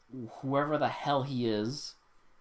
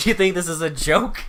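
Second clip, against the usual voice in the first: mock tough guy; 4 semitones higher, 10 dB louder than usual. Mock fight challenge.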